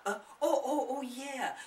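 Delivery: startled little laugh. Acted. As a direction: laugh as she comes back to herself. Mother snapped out of trance.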